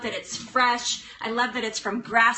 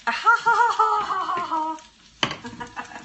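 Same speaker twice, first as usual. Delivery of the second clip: laughing; 7 semitones higher, 3 dB louder, slower than usual. Real, not acted. Laughs at own butter pun.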